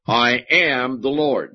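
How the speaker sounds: slow, each word weighted: I am the Lord; emphatic declaration. Shown as a demonstration. Preacher reading God's words to the congregation, slow and emphatic. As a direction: land it slowly like a divine decree. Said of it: "emphatic in the way that God is saying it".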